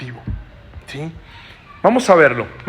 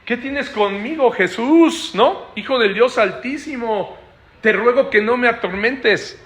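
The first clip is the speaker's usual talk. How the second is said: higher-voiced, pleading possessed man; possessed man pleading with Jesus in a raised voice; pleading demoniac; 5 semitones higher than usual. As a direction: beg Jesus to leave him alone. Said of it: "¿qué le dice?".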